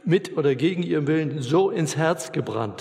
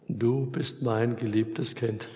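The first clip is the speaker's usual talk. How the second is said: tender assurance; 3 semitones lower, 4 dB quieter, slower than usual. Acted.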